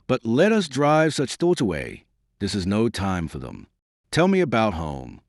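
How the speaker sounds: lightly brightening, a touch of cheer; cheerily. Acted. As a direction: shake off the gloom with a bright start. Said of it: "brightened up and said, cheerily".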